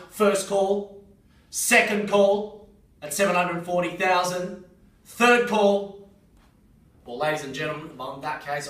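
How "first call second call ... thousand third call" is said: rising, louder call to the room; loud auction call. Real, not acted. Auctioneer calling final bids.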